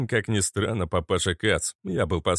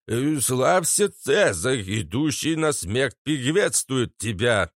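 mechanical translation; 5 semitones higher, slower than usual. Acted. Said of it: "автоматически перевёл Изя".

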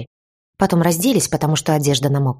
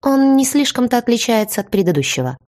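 higher, mocking lilt; smirking; 7 semitones higher than usual. A narrator's reading. Former friend on her new plan, lightly smirking. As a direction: toss it off with a little smirk. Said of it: "усмехнулась она".

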